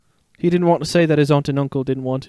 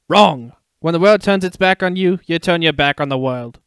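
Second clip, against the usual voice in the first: louder, brash declaration; emphatic; 3 semitones higher, 4 dB louder than usual. Acted. Meerkat correcting the cub, brash and loud. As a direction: slam the word down with a grin. Timon's bold contradiction.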